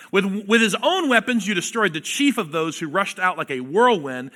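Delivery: forceful pulpit reading building up; scripture reading. Acted. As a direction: proclaim the verses with rising fire. Preacher reads scripture aloud.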